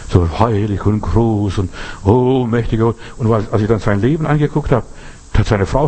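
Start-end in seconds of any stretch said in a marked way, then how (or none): 0.1-3.0 mock pompous prayer. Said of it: "der betet wie der liebe Gott selber".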